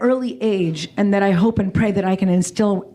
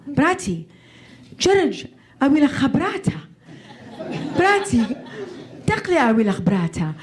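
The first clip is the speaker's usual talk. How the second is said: laughing through dad's words; much faster than usual. Retold or imitated.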